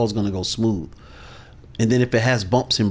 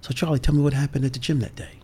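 curious tone; 4 semitones higher, 4 dB quieter, faster than usual. Shown as a demonstration. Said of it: "my curious tone".

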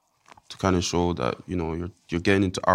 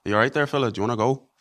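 chatty Irish accent, like greeting a mate; faster than usual. Shown as a demonstration. Boyfriend showing interviewer how he speaks to Irish people, Irish accent. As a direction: put on a casual Irish accent. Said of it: "if I speak, like".

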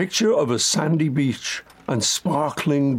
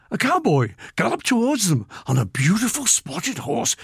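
lively storybook read, pitched higher; more spirited; 7 semitones higher than usual. Shown as a demonstration. Producer asks for a more spirited read, so lively and higher. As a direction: give the cowboy line real spirit. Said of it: "a bit more spirited".

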